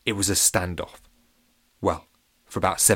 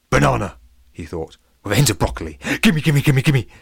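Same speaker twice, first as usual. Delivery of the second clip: greedy puppy; 4 semitones higher, 6 dB louder than usual. Acted. The pup smells the baddies.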